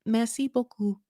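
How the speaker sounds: awkward French attempt. Shown as a demonstration. Californian who can't do French tries it, awkward French accent. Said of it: "my mouth around French".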